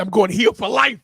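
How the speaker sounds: loud mock shout of a wrestling vow; heel vow shout. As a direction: belt it out like a heel wrestler swearing revenge. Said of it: "I said".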